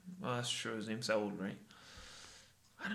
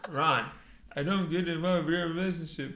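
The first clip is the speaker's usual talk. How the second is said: slightly louder put-on voice; reality-show impression; 2 semitones higher, 3 dB louder than usual. Friend re-enacting Jersey Shore row, contained mock confrontation. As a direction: imitate a TV quarrel, still contained. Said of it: "I'm gonna take Ronnie".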